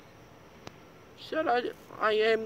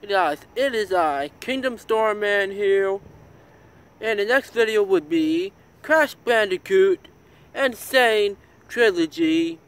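excited; 4 dB louder than usual. Real, not acted. Loud channel intro.

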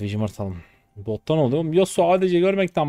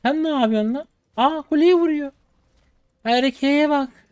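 mocking taunt; 8 semitones higher, much slower than usual. Real, not acted. Mocking the enemy player.

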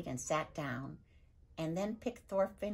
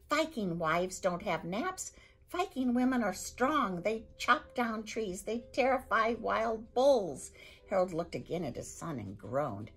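raging Viking; 6 semitones higher, 4 dB louder than usual. Acted. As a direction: hammer each rule home. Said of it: "spitting with rage now".

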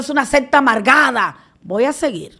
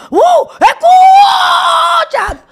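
very high, drawn-out, loud yell; mock ranting preacher; 6 dB louder, much slower than usual. Imitating the angry preacher yelling into the mic, very high and loud. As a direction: blow out the mic like him. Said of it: "Tumbando y rompiendo los micrófonos".

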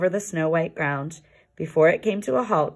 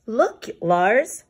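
excited call; 5 semitones higher than usual. Acted. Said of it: "cried Yuri excitedly".

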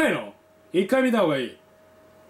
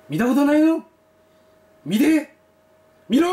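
shouting; 4 semitones higher, 4 dB louder than usual. Real, not acted. Urging viewers to watch.

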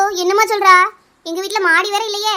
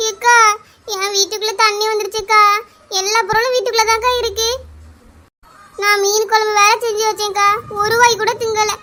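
acted crying, whining complaint; tearful wailing. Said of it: "அப்படியா லட்சுமி இப்படி அழுறா?". (அழுதபடி புலம்புதல்)

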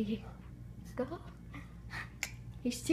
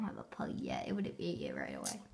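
whispering; 9 dB quieter than usual. Real, not acted. Whispered aside to camera.

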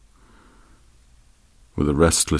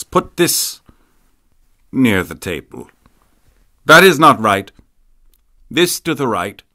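put-on sharp orders, higher old lady voice; bossy old woman; 4 semitones higher than usual. A narrator's reading. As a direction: order the servants about, imperious. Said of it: "continued to order them about".

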